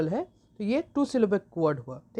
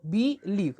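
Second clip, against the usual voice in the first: believe broken into "be" and "lieve"; split into syllables. Shown as a demonstration. Teacher breaks the word up for students, believe split in two. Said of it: "बिलीव को तो अगर आप तोड़िएगा".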